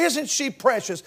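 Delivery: put-on soft cooing over a little girl; tender cooing. Preacher admiring a little girl, softly cooing. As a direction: say it gently, like admiring a baby. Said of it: "about a little girl, we'd say".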